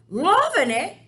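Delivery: loud, high incredulous yell; outraged yell. Acted. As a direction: fling his words back in disgust. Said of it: "yelled the blood bottler".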